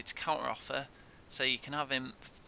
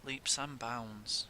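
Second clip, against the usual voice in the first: soft repeat; 3 semitones lower, 6 dB quieter, slower than usual. Real, not acted. Repeated softly.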